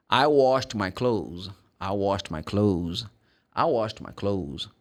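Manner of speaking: slow, careful repeat-after-me delivery; slow model sentence. Shown as a demonstration. Teacher giving students an example to repeat, slow model delivery. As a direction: model it slowly for learners. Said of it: "Example of these".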